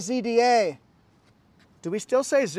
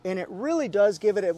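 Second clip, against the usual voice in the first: usual speaking voice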